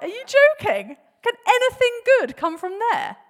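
high, loud shocked disbelief; Nathanael. Acted. Friend scoffing at news from Nazareth, loud shock. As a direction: blurt it out, scandalised and incredulous. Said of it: "you can hear the kind of shock".

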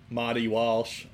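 Marty Walsh in a Boston accent, r dropped. Shown as a demonstration. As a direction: say it like a Boston local, Mahty Walsh. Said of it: "I have to say that in a Boston accent here".

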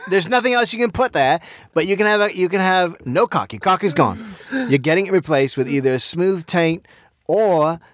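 rough put-on Australian voice; Australian accent that may fall apart; attempted Australian accent. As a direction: imitate an Australian podcast host. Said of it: "try and do an Australian accent".

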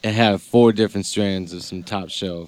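stoned, lazy talk; stoner. Real, not acted. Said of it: "I'm stoned right now".

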